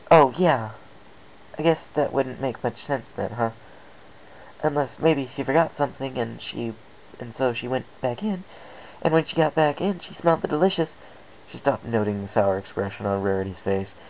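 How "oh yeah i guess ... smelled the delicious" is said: high, bubbly pony voice; chirpy, bouncy high voice; Pinkie Pie voice. Acted.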